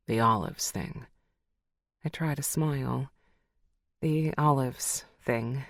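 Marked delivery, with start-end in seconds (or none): 0.1-1.1 lower, knowing male voice; Connor's voice. Acted. Connor naming her old hang-up, low and dry. 4.0-5.6 slow echo. Acted. Lucy echoing Connor's words, slow and wry.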